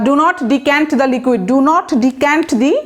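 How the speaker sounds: very slow, word by word example sentence; teacher dictating slowly; slow dictation. Shown as a demonstration. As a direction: spell it out slowly for the class. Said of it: "অথবা".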